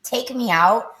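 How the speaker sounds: pleading prayer. Retold or imitated. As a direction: beg to be taken, voice pushed up. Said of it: "and I prayed".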